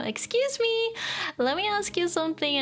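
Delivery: high, prim, overly polite; mock ojousama English; Sakiko's way. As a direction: pitch it up like a posh heiress. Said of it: "had to be said in Sakiko's way".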